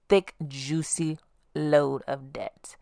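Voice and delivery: slow, hushed whisper, savoring each word. Acted. Confessing her debt to viewers, slow hushed whisper. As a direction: whisper it slowly like a juicy secret.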